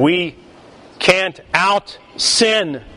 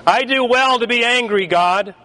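mock defiant Jonah; 8 semitones higher than usual. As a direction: toss it back at God like a cocky Texan. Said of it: "He confidently blew right by the question".

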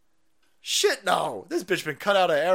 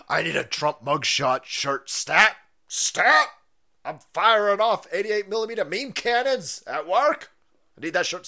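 excited fan voice; 3 semitones higher, 4 dB louder than usual. Retold or imitated. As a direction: play an eager fan yelling for merch. Reading viewer comment in voice.

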